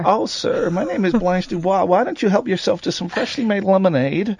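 lightly voiced coy Southern belle; coy Southern lady. Host offering lemonade as Blanche, mildly coy Southern voice. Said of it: "That's what I'm doing".

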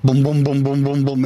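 rhythmic low booms; imitated bus thumping. Resident showing a reporter the noise that wakes him, thudding booms. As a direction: mimic a repeated dull thud.

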